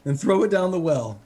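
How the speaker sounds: frantic sobbing. Acted. Rick sobbing, rambling confession.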